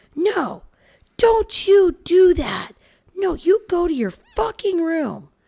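put-on high, shrieking little kid scream. Retelling how Leo yelled when he got upset, imitating Leo screaming. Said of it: "he's screaming it right now".

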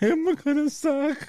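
mocking, gloomy, high, slow put-on voice. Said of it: "and he's like".

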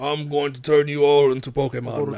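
put-on booming, loud British villain accent. Quoting Mewtwo's line from the movie: British Mewtwo voice. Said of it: "And he's British".

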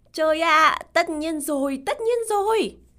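very loud, high, nearly shouting outburst. An unhappy woman handling the flight check-in answers the narrator, almost shouting. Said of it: "Cô ấy gần như hét lên".

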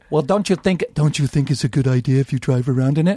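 deep put-on voice. Retelling what the guy with the car asked him, James Earl Jones voice. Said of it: "he has like a James Earl Jones kind of voice".

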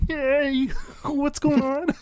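very high, little frog-puppet voice. Speaker retells a Kermit avatar interrupting people in VR; Kermit the Frog voice. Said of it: "little Kermit's like".

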